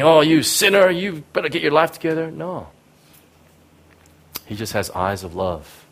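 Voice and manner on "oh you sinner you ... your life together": judgmental God. Retold or imitated.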